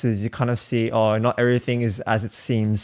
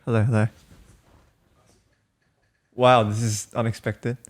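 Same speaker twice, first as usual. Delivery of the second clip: muffled behind a face mask; through a face mask. Real, not acted. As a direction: speak through a covid mask. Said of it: "Can you hear me with the mask on?".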